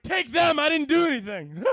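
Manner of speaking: high, whiny cowardly plea; squealing comic coward; mock panicked pleading. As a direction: beg in hammed-up terror to be spared.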